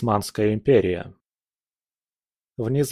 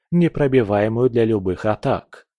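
usual speaking voice

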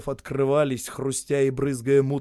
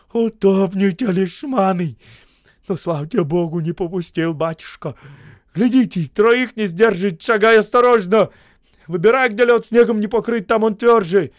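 loud, higher grumbling commands; grumbling orders; 8 semitones higher, 10 dB louder than usual. A narrator's reading. Injured Osip grumbling orders to the men carrying him. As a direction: grumble and boss them while carried. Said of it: "нам ворчал".

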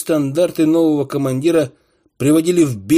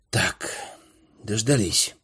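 a hint of ominous drawl; slow theatrical villain menace; 5 semitones lower, 7 dB quieter, slower than usual. A narrator's reading. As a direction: drag it out ominously. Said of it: "зловеще протянул Шилкин".

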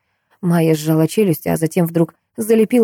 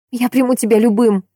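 higher, tender promise; sincere vow; 6 semitones higher than usual. A narrator's reading. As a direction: promise him acceptance. Maya's vow.

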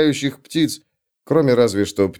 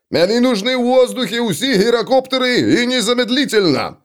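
through a tube; 10 semitones higher than usual. A narrator's reading. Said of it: "выкрикивал Макайсон".

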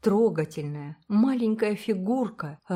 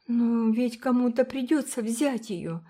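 sobbing; 6 semitones higher than usual. A narrator's reading. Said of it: "всхлипнула Уна".

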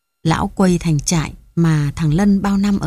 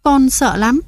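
a frightened daughter crying to her father, much higher; crying plea; 6 semitones higher than usual. A narrator's reading. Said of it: "cô chạy vào khóc lóc".

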